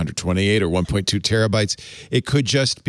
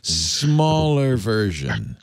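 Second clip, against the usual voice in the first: sexy voice; much slower than usual. Acted. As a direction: purr it like a late-night radio host. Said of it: "as I do a dramatic reading of a song".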